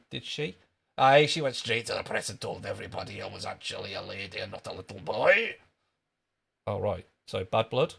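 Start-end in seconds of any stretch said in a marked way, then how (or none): 1.0-5.6 Scottish rant, dropped out of the squeak; louder Scottish outburst, jumping up at the end; Jimmy Krankie. Acted. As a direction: blurt it indignantly in a Scottish accent. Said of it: "Apologies for that Scottish accent".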